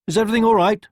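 high, loud worried pig. A narrator's reading. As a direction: check on the hen. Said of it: "he asked".

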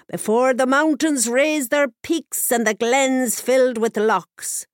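a lightly voiced old witch remembering with sorrow; understated sorrowful crone; sad old crone. A narrator's reading. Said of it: "said the Cailleach sadly".

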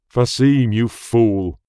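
mild teasing call. Acted. Oman calling to Fasim, mildly scolding. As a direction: call across the paddock. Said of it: "Oman called".

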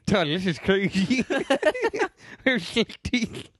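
high, slow, lips held apart; Dave Turpin impression. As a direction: drag it out through stuck-open lips. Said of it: "Dave Turn impression".

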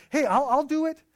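imitating an excited yes; emphatic, excited. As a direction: jump in as the keen volunteer. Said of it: "pretty emphatic and pretty excited".

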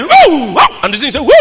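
loud mimicked dog woof; imitated dog noise. Imitates dog noticing fear.

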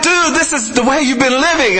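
a lightly voiced Jesus confronting a young man.

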